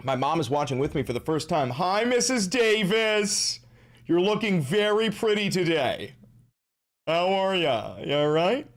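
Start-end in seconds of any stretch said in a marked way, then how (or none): 1.7-8.7 sweet greeting. Acted. Greeting streamer's mom sweetly.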